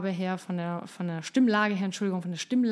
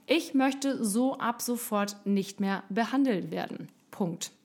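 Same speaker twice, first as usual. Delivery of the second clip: calm firm statement; slower than usual. Shown as a demonstration. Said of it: "auch mit dieser Ruhe".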